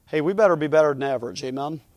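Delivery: ordinary talk, nothing marked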